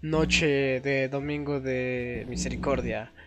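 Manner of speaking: radio announcer voice. Pretend. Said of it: "ya voy a dejar de hablar como imbécil".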